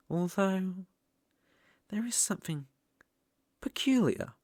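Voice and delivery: breathy secretive whisper, half to itself; ominous whisper. Acted. Demon studying his new sacrifice, whispering in curiosity. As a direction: let it slip out as a hushed, curious whisper.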